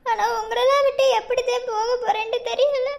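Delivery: choking up at leaving family; tearful. Acted. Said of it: "எதுக்கு இப்படி அழுதுக்கு இருக்க". (அழுகையோடு தழுதழுத்த குரல்)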